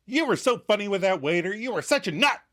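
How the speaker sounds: gushing. Retold or imitated. Katie to Joey recalling his waiter joke, gushing. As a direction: gush over how funny he was.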